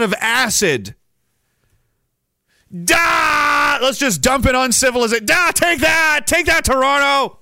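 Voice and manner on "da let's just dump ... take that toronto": hammed-up evil glee; cartoon villain. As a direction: cackle like a supervillain dumping acid. Villain dumping acid on city.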